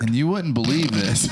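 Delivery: put-on a light Southern Forrest Gump accent. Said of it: "That was a good accent".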